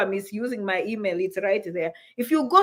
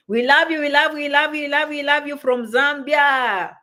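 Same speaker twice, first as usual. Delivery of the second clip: excited cheer; 2 semitones higher, 4 dB louder than usual. Real, not acted. Cheering viewers from Zambia.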